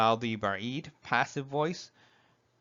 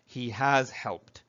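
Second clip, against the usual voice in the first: slow teaching repeat; slower than usual. Shown as a demonstration.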